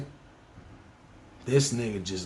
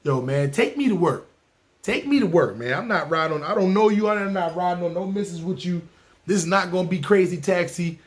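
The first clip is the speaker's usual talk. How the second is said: urgent demand; 4 semitones higher than usual. Retold or imitated. Begging driver.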